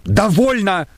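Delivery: high, gasping "Довольно!"; breathless cry. A narrator's reading. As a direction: cut it off, out of breath. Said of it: "повторил Лаевский, задыхаясь".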